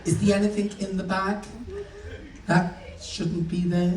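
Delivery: mildly snotty official questioning; slightly snooty, measured airport questioning; dead snotty. Acted. Check-in woman asks about the bag, mildly snotty. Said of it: "she's dead snotty".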